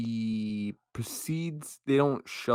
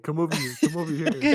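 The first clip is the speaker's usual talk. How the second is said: silly clown; 6 semitones higher, 6 dB louder, faster than usual. Retold or imitated. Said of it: "He's like".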